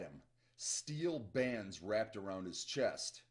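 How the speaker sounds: slow, deliberate thriller reading; story narration. A narrator's reading. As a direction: read it out with measured suspense. Reads novel aloud.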